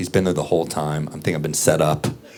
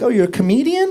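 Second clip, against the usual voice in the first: woman's voice. Retold or imitated. Woman in elevator.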